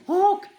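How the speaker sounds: short honk made with the voice; imitated horn. Storyteller shows children the ear-splitting horn, mock honk. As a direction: mimic a sudden truck horn. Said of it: "કાન ફાડી નાખે ને એવો horn વાગ્યો".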